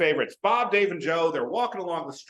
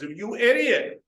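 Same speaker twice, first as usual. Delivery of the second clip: loud, slow scolding you idiot; family scolding the gambler, mock exasperated scold; 7 semitones higher, 5 dB louder, slower than usual. Mock exasperated scold.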